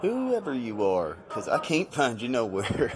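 a hint of cowboy twang, softly spoken. Host dedicates the segment to Emily, lightly voiced cowboy. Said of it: "I'm talking in a, in a cowboy voice here".

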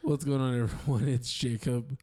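low, smooth sultry intro. Acted. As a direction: purr it low like a perfume ad. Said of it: "that sultry voice".

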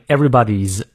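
"everybody's" ending in a voiced Z. Shown as a demonstration. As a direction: buzz the final S of "everybody's" as a Z. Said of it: "应该念z的发音".

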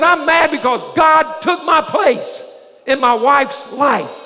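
slow, emphatic mock grievance; imitated mad husband, slow and weighty; retold angry complaint. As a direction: act out an aggrieved husband, drawing the words out. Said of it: "He was mad".

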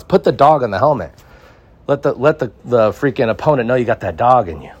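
rally the fans with fire; hyped up. Real, not acted. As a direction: sell it like a hype man. Hyping the dog logo.

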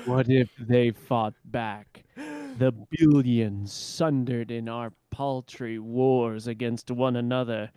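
slow, grave epic narrator; dramatic villain voice. Acted. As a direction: intone it like doom.

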